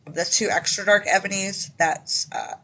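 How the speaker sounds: speaking around a dental temp; slight lisp. Real, not acted. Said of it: "Sorry, guys, if I'm talking weird".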